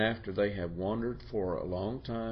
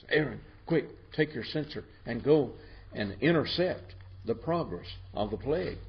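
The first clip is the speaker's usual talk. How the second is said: urgent command; 4 semitones higher than usual. Retold or imitated. Moses urgently orders Aaron.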